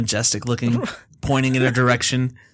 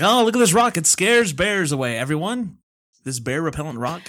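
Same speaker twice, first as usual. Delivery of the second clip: snake oil salesman; 2 semitones higher than usual. Pretend. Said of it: "your best, like, snake oil salesman voice impression".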